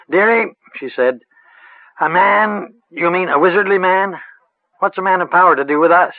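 lightly voiced rustic old witch; a hint of a cackly village crone, musing. A narrator's reading.

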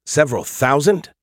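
disbelieving rising question; surprised. Acted. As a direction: echo it back in shock. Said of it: "You seem surprised".

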